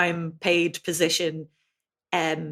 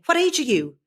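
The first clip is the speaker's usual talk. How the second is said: Irish English phrasing; 8 semitones higher, 3 dB louder than usual. Retold or imitated. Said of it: "If I'm saying".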